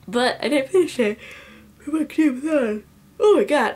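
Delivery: high, hammed-up wail of frustration; mock lament. Book vlogger owning up to an unfinished readathon, mock lament. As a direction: loudly bemoan a tiny failure.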